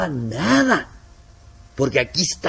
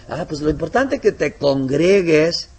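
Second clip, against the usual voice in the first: mock lax advice; 3 semitones higher, 3 dB louder, slower than usual. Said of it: "lo importante no es que esté".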